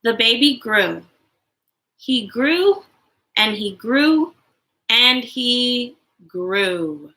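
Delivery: slow, gentle read-aloud to an audience; storybook reading. A narrator's reading. Mom reading a favorite picture book to other moms, gently. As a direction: read it like bedtime for little ones.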